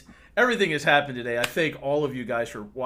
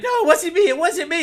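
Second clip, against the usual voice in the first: much higher and louder, a frantic denial; panicked goblin squeak; 8 dB louder than usual. Acted. Terrified goblin denying it to the dwarf, squeaky high plea. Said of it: "He's like".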